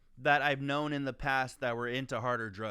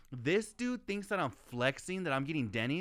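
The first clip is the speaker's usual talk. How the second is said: higher, exasperated retort; mock indignant rant; 3 semitones higher than usual. Sneering back at the guy who called Denny's a flex. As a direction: scoff at him like he's clueless.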